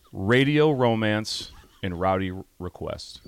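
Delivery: slow, grand segment title; announcer voice. Acted. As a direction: announce it like a radio show.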